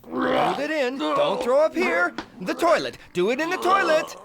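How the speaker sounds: high, loud frantic pleading; panicked urging. Acted. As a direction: hurry them to the toilet. Urging friend not to vomit.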